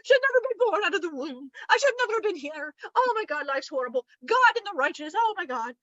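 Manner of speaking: hammed-up wail of self-pity; mock despairing rant. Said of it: "starts going in this rant like".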